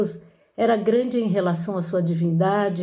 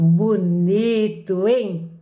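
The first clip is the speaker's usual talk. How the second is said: ironic; 3 dB louder, much slower than usual. Shown as a demonstration. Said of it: "Ou ele usa ironia e fala".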